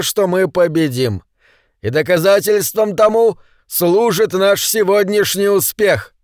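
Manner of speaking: high, slow, ringing oration; rally the troops before battle; rousing battle speech. A narrator's reading. Bald leader rallies his men with a pre-battle speech. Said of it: "вдохновляющую речь перед битвой".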